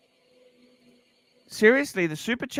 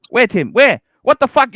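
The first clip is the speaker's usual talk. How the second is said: exasperated demand; 6 dB louder, much slower than usual. Real, not acted. Demanding super chats.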